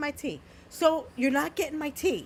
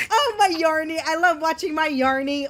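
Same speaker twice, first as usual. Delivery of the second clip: mild gushing over a streamer; a touch of happy cooing; happy doting voice. Retold or imitated. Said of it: "all happy about it".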